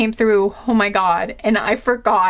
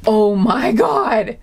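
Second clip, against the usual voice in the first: shocked; 3 dB louder, much slower than usual. Real, not acted. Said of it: "This is legit shock".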